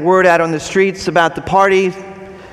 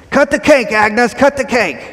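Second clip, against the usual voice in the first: cheering yell; 6 semitones higher than usual. Retold or imitated. The whole crowd urging Agnes at her party, cheering. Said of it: "Everyone cheers and yells".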